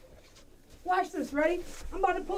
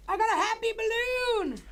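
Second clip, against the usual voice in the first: excited; 7 semitones higher than usual. Real, not acted. Excited about balloon.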